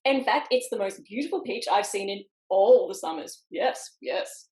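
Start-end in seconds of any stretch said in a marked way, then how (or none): 3.5-4.5 breathless, whispered yes yes; whispered agreement. Acted. Sidekick eagerly agreeing with the plan, whispered. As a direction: hiss the yeses in eager agreement.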